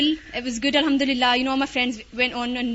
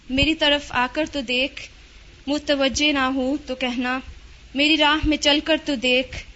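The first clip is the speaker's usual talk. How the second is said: quick, rhythmic recitation of an Urdu poem; Urdu nazm recital; much faster than usual. Shown as a demonstration. Reciting a favourite Urdu nazm to the class, quick and rhythmic. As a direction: rattle off the couplets fast, with feeling. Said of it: "I'll try and say it in Urdu, okay?".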